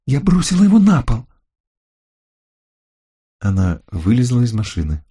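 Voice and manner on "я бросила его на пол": high, loud exasperated cry; irritated shout. A narrator's reading. Lucille insists to the narrator she dropped it, irritated shout. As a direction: yell it out, fed up. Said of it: "раздражённо крикнула она".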